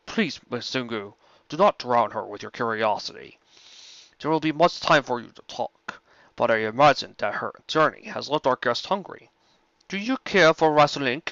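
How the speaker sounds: a calm, measured dragon, close to the narrator's own voice; lightly voiced dragon. Dragon Smog greeting Rainbow Dash, lightly voiced and calm. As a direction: play the courteous old dragon, barely changing the voice.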